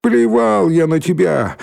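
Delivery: high, drawn-out jeer; defiant shout. A narrator's reading. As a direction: call it defiantly over a fence. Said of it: "закричал Валька из-за забора".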